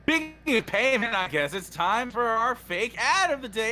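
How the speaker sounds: hammed-up pitchman; fake ad read. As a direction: sell it like a parody commercial.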